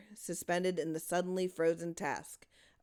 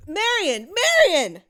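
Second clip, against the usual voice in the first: much higher, louder screaming cry; cried out; 13 semitones higher, 14 dB louder, slower than usual. A narrator's reading. Louise screaming for her daughter in the cellar, terrified. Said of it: "Louise cried out".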